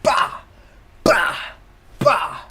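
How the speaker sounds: loud bah bah bah sound effects; mock fighting noises; mock punches. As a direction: punch noises in three beats. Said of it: "she's finna".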